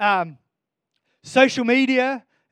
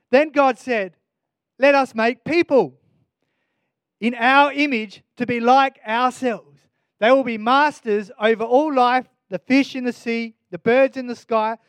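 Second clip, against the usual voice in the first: louder, measured Bible reading; scripture reading; 4 dB louder than usual. Acted. Preacher reading Genesis to congregation, solemn reading. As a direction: read the verses with weight.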